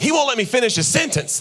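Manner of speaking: a hint of a fed-up wife; mock complaining wife. Future wife complaining about husband, high whine. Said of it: "she's gonna be like".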